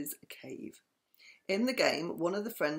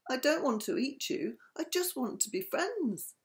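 sad; 5 semitones higher than usual. Acted. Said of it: "The shark smiled sadly".

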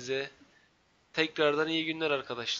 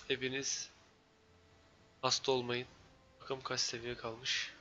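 stuffy nose; 7 dB quieter than usual. Real, not acted. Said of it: "Şu an benim burnum tıkalı mesela".

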